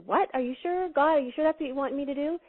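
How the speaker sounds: startled protest at the order; hint of shocked climber; disbelieving man. Man stunned by God's order.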